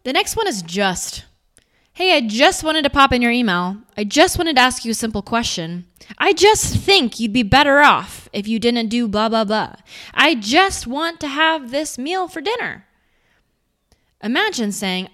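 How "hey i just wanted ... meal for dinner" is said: hesitant, apologetic; anxious. Shown as a demonstration. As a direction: ask permission while shrinking a little. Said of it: "One was said with a little bit more of anxiety".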